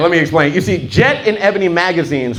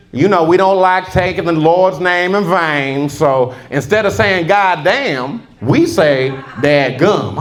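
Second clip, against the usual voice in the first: slow Southern explainer; slower than usual. Retold or imitated. Southern man explaining slowly.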